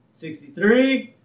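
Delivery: high, drawn-out count; counting aloud. Retold or imitated. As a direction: count it out slowly and loudly, building suspense. Abe counts the tugs aloud.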